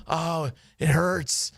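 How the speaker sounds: slow, pained moan; moaning friend in pain. Retold or imitated. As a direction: groan it out slowly like you're hurt.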